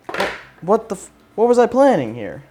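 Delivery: high-pitched, incredulous self-questioning; real dismay. Real, not acted. YouTuber surveys his botched drilling, high exasperated dismay. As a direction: jump up high in disbelief at yourself.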